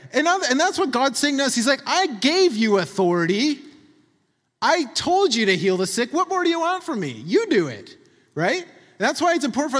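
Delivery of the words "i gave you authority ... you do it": exasperated reply. Retold or imitated. God voiced, exasperated with us.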